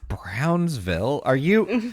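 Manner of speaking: slow, tentative imagined listener; puzzled, careful query, left hanging; hesitant questioning. Acted. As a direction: draw out the name as a wary question.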